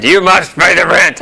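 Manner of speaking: a hint of a hammy landlord; lightly voiced melodrama villain; sneering panto villain. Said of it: "I just put on three masks".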